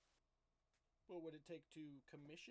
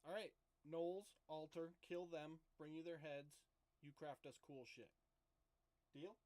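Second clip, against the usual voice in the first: louder, higher, slow commands; loud bossy; 4 semitones higher, 4 dB louder than usual. Acted. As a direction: lay out the deal firmly. Character bargains with goblins.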